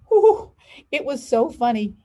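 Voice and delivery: laughing whew, bursting high and loud; child telling of teacher's fall, laughing. Acted. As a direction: let the laugh break through.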